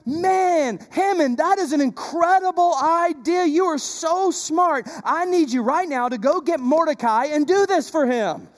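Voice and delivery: king thrilled with the idea, lightly acted; delighted king. King praising Haman's idea, delighted and gushing. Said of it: "He's like".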